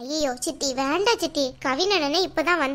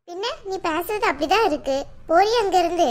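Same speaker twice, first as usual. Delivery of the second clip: raised-pitch, angry dismissal; cross scolding; 3 semitones higher than usual. Acted. Elder orders Anu away in a quarrel, cross scolding. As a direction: snap back and send her off.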